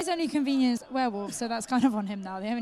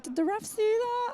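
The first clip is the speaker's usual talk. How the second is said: quoted player; 10 semitones higher, slower than usual. Retold or imitated. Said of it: "He was like".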